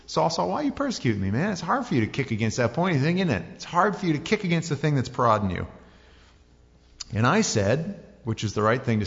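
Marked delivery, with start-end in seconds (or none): 0.1-5.7 higher, chatty voice from heaven; lightly voiced Jesus calling. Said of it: "this voice says".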